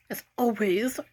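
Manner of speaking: soft unvoiced whisper; whispered aside. Real, not acted. Muttering to viewers about constant rudeness, sarcastic whisper. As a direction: breathe it like a secret sarcastic aside. Aside after "That's rude.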